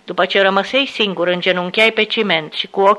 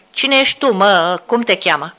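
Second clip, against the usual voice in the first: menacing through teeth. Acted. Fat officer questioning the prisoner through teeth, menacing. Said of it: "mă întrebă printre dinți".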